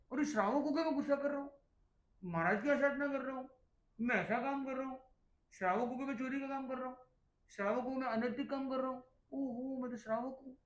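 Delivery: a layman snapping back, reminding himself who he is; indignant self-check. Retold or imitated. An angry layman stops himself mid-quarrel, in a quick indignant voice.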